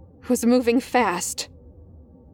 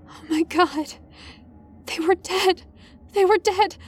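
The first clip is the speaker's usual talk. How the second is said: shocked disbelief; 9 semitones higher than usual. Acted. Narrator shocked by bodies.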